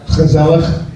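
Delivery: gezellig with a throaty Dutch ch at both ends; "gezellig", scraped in the throat at start and end; guttural Dutch. Shown as a demonstration. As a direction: rasp the first and last sound of "gezellig". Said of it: "it starts with a ch".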